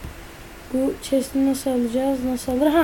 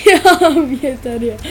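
laughing exasperation; 4 dB louder than usual. Real, not acted.

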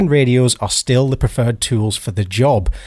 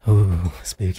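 spooky voice; 6 semitones lower, 4 dB quieter than usual. Acted. Mock-spooky reaction.

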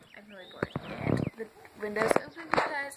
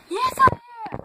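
whiny friend; 11 semitones higher, 10 dB louder than usual. Retold or imitated. Friend insists she will melt.

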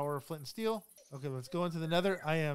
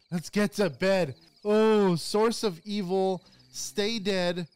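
mock dramatic voice; 5 semitones higher, 10 dB louder, much slower than usual. Dramatic line in the bed scene.

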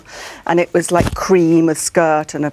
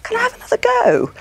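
much higher, eager little plea; high hopeful ask. Retold or imitated. Asking the producers for another audition, high and eager. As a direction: ask sweetly for another chance. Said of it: "rang them up and said".

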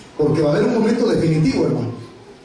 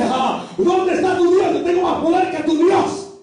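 slow, higher mocking demonic shout; terrible demon voice; 9 semitones higher than usual. Preacher voicing demons taunting the praying man, mocking shout. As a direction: taunt the believer like a devil. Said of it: "voces terribles que dicen".

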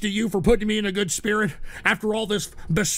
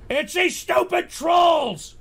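high, slow, drawn-out complaint; exasperated flare-up; 8 semitones higher, slower than usual. Real, not acted. Host blaming trolls to his pet, exasperated flare-up. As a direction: wail it in exasperation.

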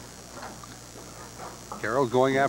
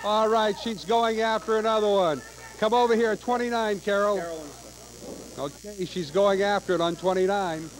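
frantic mock sports commentary; 4 semitones higher than usual. Real, not acted. Frantic commentary on Thunderbird bonus.

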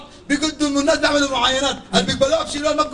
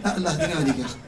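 low, soft plea for patience; quiet, weary appeal; restrained exasperation; 10 semitones lower, 5 dB quieter, faster than usual. Real, not acted. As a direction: keep it down, patience running out. Exasperated host holds himself back.

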